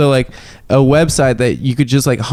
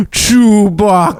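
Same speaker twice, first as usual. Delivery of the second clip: slow, high drawn-out Yoda name call; 8 semitones higher, much slower than usual. Retold or imitated. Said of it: "and he's like".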